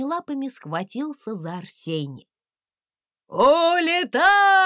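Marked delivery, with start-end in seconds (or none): 3.3-4.6 high, loud, slow outburst; exploding. A narrator's reading. Landysh Petrovich exploding as the dragon escapes. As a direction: burst with rage. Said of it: "взорвался Ландыш Петрович".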